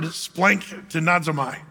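splanchninazomai spelled out slowly syllable by syllable; Greek word said slowly. Shown as a demonstration. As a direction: sound out splanchninazomai carefully. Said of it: "That's this word".

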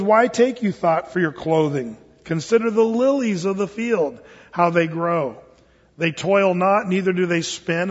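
slow, measured King James reading; scripture reading. Acted. Pastor reading Matthew aloud in a slow scripture cadence. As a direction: lay the verse out slowly for the flock.

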